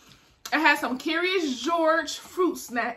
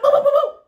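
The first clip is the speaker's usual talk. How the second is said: punch noises; 11 semitones higher, 9 dB louder than usual. Retold or imitated. Punching sounds in the fight.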